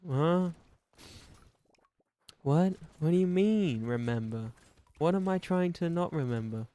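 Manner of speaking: high, loud what?; puzzled outburst; baffled. Retold or imitated. Acted confused back-and-forth.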